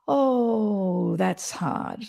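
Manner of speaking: soft calming reassurance; warm soothing voice. Shown as a demonstration. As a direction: comfort a distressed friend. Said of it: "And you'll notice as I'm speaking".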